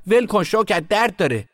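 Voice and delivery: high, loud cry to let go; pained protest. A narrator's reading. Boy to sister twisting his hand, pained protest. Boy's arm twisted, begs release.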